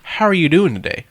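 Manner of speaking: butter them up like a pushy recruiter; sugary salesman greeting. Retold or imitated. Mocking a recruiter who opens with a fake-friendly hello. Imitating proselytizer's sweet opener.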